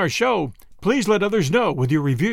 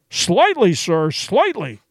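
barely articulated; 2 semitones higher, slower than usual. Acted. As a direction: force the words out, stunned. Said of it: "he managed to articulate".

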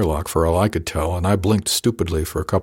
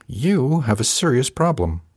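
"you" leaned on hard, slower and weighty; stress on you; 5 semitones higher, slower than usual. A narrator's reading. Captain warning the new third mate, heavy stress on "you". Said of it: "heavy emphasis on the you part".

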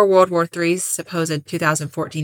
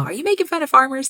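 higher-pitched put-on Southern accent; extreme Southern accent; 8 semitones higher, faster than usual. Podcaster imitating a friend's funny VR voice, extreme Southern accent. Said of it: "that voice that she does of the extreme Southern accent".

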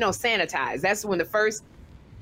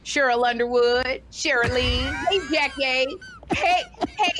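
mocking pestering comic; 3 semitones higher than usual. Imitating the comic who kept calling her wrong names, needling. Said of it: "He kept going".

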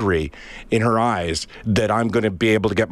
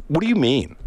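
mock blank "what do you mean"; 6 semitones higher than usual. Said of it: "Just like".

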